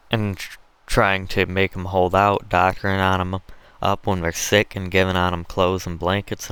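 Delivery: lightly voiced Southern slave trader, punchy; hint of a swaggering overseer; callous planter. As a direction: talk business in a folksy Southern dialect, unfeeling.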